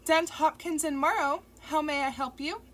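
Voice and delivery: polite office receptionist. A narrator's reading. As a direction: answer the phone like a law firm receptionist. Receptionist answers phone.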